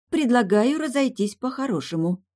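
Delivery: high, strained offer; tense. A narrator's reading. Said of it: "напряжённо сказала". (напряжённо)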